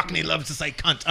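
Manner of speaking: put-on a touch of Cockney accent. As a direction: slip lightly into mock Cockney. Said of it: "Cockney is the, uh, accent".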